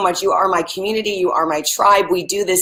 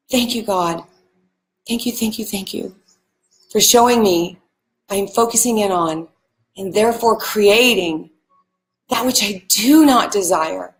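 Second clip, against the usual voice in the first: soft mantra together. Shown as a demonstration. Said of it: "Try it with me".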